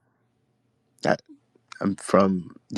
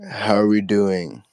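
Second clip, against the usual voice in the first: sultry, louder greeting; 6 dB louder than usual. Real, not acted. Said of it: "why do you sound very sultry".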